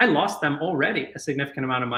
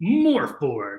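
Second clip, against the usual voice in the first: way too much inflection on the words morph board. Recalling a voice booth session, the speaker is retelling overdone inflection. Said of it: "can you do that with a little bit less inflection on the morph board".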